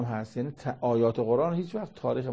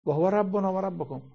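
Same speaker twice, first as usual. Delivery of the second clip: emphatic proclamation; 7 semitones higher than usual. Acted. Preacher proclaiming the verse to the congregation, emphatic and raised. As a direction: proclaim و هو ربنا و ربکم high and strong, stress on ربنا. Quran phrase recited twice.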